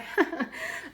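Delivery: airy little laugh with no voice; breathy giggle. Real, not acted. Admitting she now wants that stamp, with an airy giggle. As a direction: giggle under your breath.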